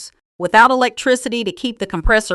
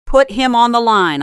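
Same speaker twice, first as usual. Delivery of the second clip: commanding; 4 semitones higher, 4 dB louder than usual. Acted. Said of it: "I commanded, my voice dropping an octave".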